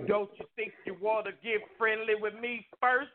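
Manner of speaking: a hint of a stern uncle's voice; mild imitation of a stern uncle calling out. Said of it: "all I hear is".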